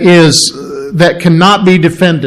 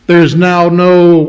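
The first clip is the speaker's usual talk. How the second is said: is there is now no said slowly, leaning on no; slow preacher's no; slow stress on no; slower than usual. Shown as a demonstration. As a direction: drag out no for weight. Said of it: "preaching no condemnation".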